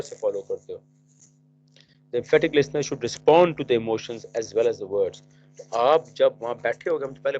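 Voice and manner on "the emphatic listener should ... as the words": dictating to students who are writing; measured classroom dictation pace; slow dictation. Shown as a demonstration. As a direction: read it out slowly, word by word.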